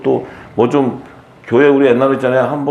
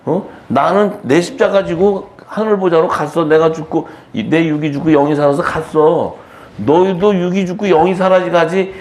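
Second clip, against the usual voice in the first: raised-pitch rebuke to the weepers; Jesus; 4 semitones higher than usual. Acted. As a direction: admonish them insistently, pitched up. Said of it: "예수님이 지금도". (높은 목소리로 꾸짖는 말투)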